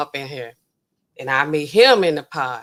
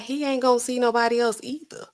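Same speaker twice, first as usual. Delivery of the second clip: insistent; 8 semitones higher than usual. Pretend. Insisting in imagined argument.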